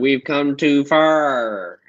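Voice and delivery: very slow, drawn-out, bad fake Southern accent. Mocking that one time she tried the accent, imitate Hillary Clinton trying a Southern accent. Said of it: "trying to do a Southern accent".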